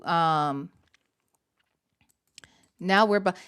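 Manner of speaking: ordinary talk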